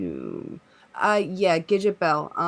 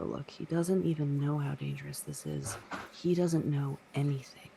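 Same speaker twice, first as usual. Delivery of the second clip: softer, confiding aside; lightly acted stage whisper, voice lowered; hushed whispering; 6 dB quieter than usual. Carl turns to his son, hushed urgent aside. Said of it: "you're whispering in a room of five".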